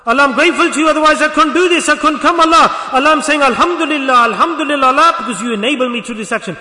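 high, loud thankful prayer; fervent gratitude. Acted. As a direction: call out earnest thanks to Allah. Acts out fervent grateful prayer.

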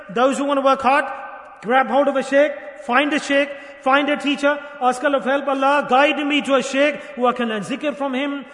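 loud, insistent preaching in short bursts; rousing exhortation. Real, not acted. Preacher urging listeners to find a teacher, rousing exhortation. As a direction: urge the congregation on phrase by phrase.

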